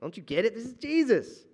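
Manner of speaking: exasperated. Retold or imitated. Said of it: "we're thinking".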